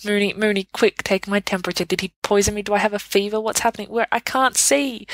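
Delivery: spiral into hammed-up panic; hysterical. Sirius on the floor to his friends, mock-hysterical panic. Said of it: "you're hysterical".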